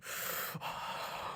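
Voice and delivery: soft, drawn-out breathy sigh; heavy breath. Shown as a demonstration. Showing Urgot's heavy breathing, soft breathy sigh. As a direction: let out a long airy breath. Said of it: "a lot of heavy breathing".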